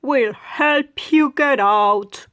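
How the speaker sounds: slow, sly whisper; crocodile whisper. Acted. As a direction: breathe it out slowly like a sneaky croc. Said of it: "One crocodile says".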